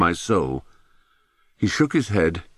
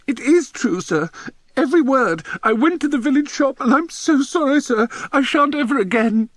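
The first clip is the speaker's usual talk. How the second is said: very high, tearful schoolboy squeal; squeaking. A narrator's reading. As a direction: squeak out a desperate apology. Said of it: "Bunce's voice squeaking out the words".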